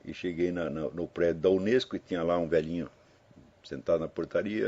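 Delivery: ordinary talk, nothing marked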